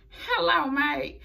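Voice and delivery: quick, half-hearted stab at an Australian "Hello, mate"; mock Australian accent. Host imitating Ruby Riott mocking Peyton, weak Australian accent. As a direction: toss off a light Australian accent. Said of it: "I couldn't even say it like them".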